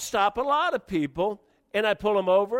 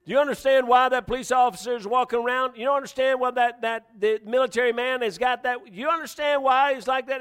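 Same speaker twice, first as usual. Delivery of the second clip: raised, higher-pitched preaching voice; forceful challenge; 5 semitones higher, 4 dB louder than usual. Acted. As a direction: drive the questions at the congregation.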